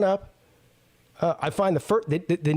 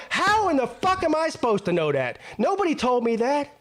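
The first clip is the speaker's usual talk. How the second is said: retold angry protest; 8 semitones higher than usual. Retold argument with guard.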